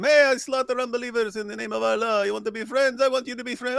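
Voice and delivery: high, hammed-up sinister pitch; mock terrorist voice. Imitating an extremist pitching friendship to a naive president. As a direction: play the smiling extremist making friendly offers. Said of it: "so if you come up to him".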